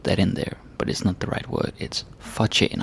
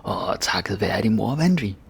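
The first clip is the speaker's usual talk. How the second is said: emotional delivery. Shown as a demonstration. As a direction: pour feeling into it, rising to the win. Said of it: "let's put some emotion into it".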